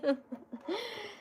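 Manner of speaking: high, soft giggle trailing off; giggle, amused at herself. Real, not acted. Laughing at herself.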